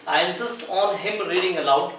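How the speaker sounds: very slow, each word apart; slow dictation. Shown as a demonstration. Teacher reading the example to students, very slow. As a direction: read it slowly for the class to copy.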